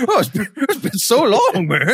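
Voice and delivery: high-pitched overcome greeting; hammed-up tearful reunion voice; emotional reunion. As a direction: gush high, as if meeting a long-lost friend. Acting Vader's reunion with droid.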